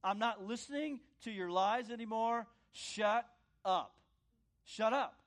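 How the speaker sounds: loud firm refusal; rebuking the devil, loud and firm; defiant rebuke. Acted. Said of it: "is to say".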